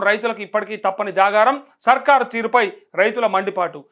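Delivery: news headlines, item by item; headline read. Acted. Anchor lists farmers' power troubles to viewers, headline read.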